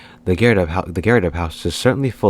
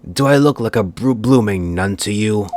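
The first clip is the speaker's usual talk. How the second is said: a loud, huffy Cockney retort; indignant old woman; 3 semitones higher, 3 dB louder than usual. Acted. The old woman yells back at the stranger, indignant and loud. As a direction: snap back like an offended old busybody.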